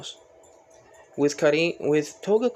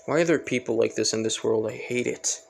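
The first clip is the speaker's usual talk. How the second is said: mildly disgusted, grumbled rather than shouted; annoyed; 2 semitones lower than usual. Acted. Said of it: "annoyed by this".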